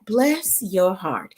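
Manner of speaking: "Bless your heart" said very slowly and softly; slow southern drawl. Shown as a demonstration. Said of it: "Bless Your Heart means just that".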